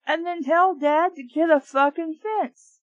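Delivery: high, loud angry yelling; exasperated shouting rant; furious outburst. Real, not acted. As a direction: yell at the characters. Reader shouts at the characters.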